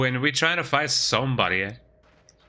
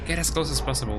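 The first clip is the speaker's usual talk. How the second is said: zombie voice; faster than usual. Acted. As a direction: speak it like a lurking zombie. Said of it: "making voices for the enemies".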